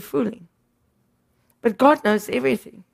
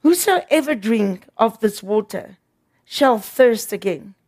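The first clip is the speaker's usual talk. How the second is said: Jesus speaking. Retold or imitated. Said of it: "Jesus answered and said".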